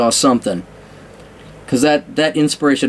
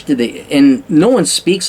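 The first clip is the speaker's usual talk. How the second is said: normal talking voice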